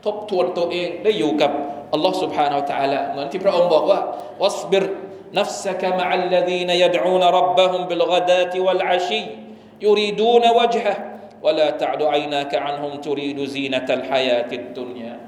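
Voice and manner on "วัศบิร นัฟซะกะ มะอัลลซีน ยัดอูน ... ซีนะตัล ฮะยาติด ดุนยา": chanted Quranic verse in a measured tune; Quran recitation. Acted. Imam quoting the verse to the congregation, chanted recitation.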